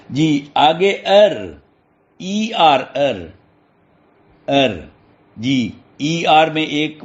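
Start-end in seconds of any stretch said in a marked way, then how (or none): none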